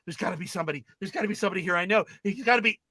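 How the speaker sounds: rushed, repetitive searching; acted hurried desperation. Boy running back in seeking help, acted hurried desperation. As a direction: talk yourself through a frantic search.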